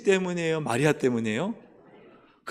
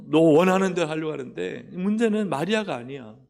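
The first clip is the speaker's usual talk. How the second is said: firm rebuke; 6 semitones higher, 7 dB louder than usual. Pretend. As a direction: scold Martha forcefully, pointing straight at her. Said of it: "문제는 누구예요?". (예수님이 마르다를 꾸짖는 크고 단호한 목소리)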